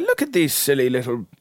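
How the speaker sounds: amused God climbing high and loud; laughing mockery. God mocks cavemen rubbing sticks, laughing. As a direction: build to a high, mocking crow. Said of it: "he's, like, laughing".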